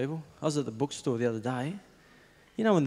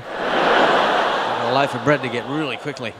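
laughing excuse; 7 dB louder, slower than usual. Retold or imitated. Hurrying away from canvasser.

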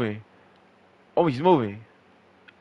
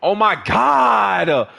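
stunned disbelief; 4 semitones higher, 3 dB louder, much slower than usual. Real, not acted. Getting double teamed.

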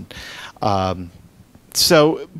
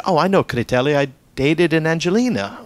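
higher, louder retold exclamation; excited recognition; 6 semitones higher, 6 dB louder than usual. Local man tells visitors he knows their family, excited recognition. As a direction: imitate a man lighting up at a familiar name.

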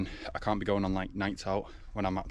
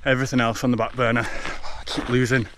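while running. Real, not acted. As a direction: keep talking as you run. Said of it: "running at a five twenty pace".

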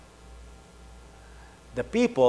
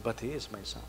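a softer, heartfelt father's plea; 2 semitones lower, 11 dB quieter than usual. Retold or imitated. Retelling a friend's words about his son, softer and heartfelt. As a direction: let it come quietly from inside. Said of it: "I felt it inside when he said".

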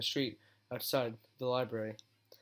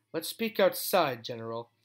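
slow, firm and loud; stern command; 4 dB louder than usual. Acted. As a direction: lay down the order slowly. Twilight orders the general out.

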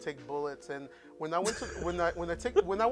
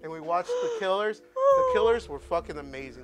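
crying; 5 dB louder than usual. Real, not acted. Recalls crying at concert.

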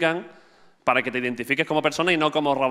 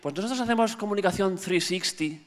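softer, lightly hammed-up agency voice; mock agency pitch; 3 semitones higher, 6 dB quieter than usual. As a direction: parody a cool agency pitching itself. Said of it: "vuestras empresas siempre son aquí". (parodia suave de agencia guay)

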